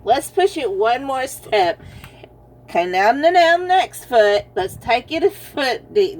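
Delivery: playfully pushing someone forward; coaxing. Retold or imitated. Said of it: "picking up the horse's foot and saying".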